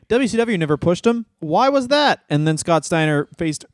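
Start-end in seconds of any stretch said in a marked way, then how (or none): 0.1-2.2 higher, lightly voiced mock question; a hint of a clueless booker asking around; mock bookers' voice. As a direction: bookers mockingly asking why Scott Steiner was never pushed. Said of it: "they were like".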